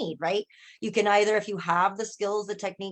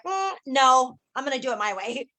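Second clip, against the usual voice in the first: stubborn refusal; 5 semitones higher, 3 dB louder than usual. Retold or imitated. Acted refusal to the coach.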